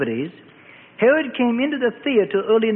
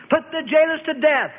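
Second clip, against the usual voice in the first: furious sentence; 8 semitones higher than usual. A narrator's reading. Herod condemns the jailers.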